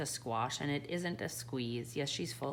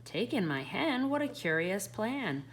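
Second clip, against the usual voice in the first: put-on higher, baffled old lady; puzzled old lady; 6 semitones higher than usual. The old lady doubts the wise man's plan, higher. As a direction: question the odd advice.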